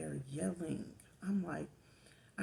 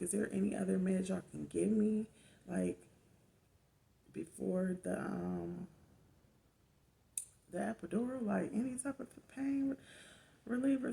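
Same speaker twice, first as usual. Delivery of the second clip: begging; 4 semitones higher, 4 dB louder than usual. Retold or imitated. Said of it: "I was begging".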